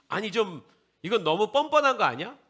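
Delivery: loud, high protest; mock objection. Preacher voices a doubter's objection, loudly indignant.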